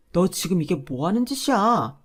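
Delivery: angry rant. Acted. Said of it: "노발대발 난리를 치더라고요".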